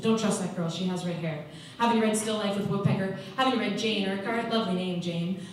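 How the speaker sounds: lightly acted rant in short, insistent bursts; Jane's tirade. Inmate warning a newcomer about redheads, ranting tirade. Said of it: "Jane talked like this, little tirades like this".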